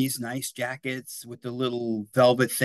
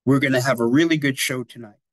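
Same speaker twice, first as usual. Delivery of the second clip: half-hearted showman announcer voice, a bit louder; a weak try at a TV host's accent; failed Ed Sullivan accent; 5 dB louder, faster than usual. Retold or imitated. Teacher attempting the Ed Sullivan host voice, lightly. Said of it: "I can't do the accent".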